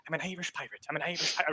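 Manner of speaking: soft Irish accent anchor phrase; quiet Irish pirate, finding the accent. Shown as a demonstration. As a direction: murmur it to yourself in an Irish lilt. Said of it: "anchor phrase that you're good at saying".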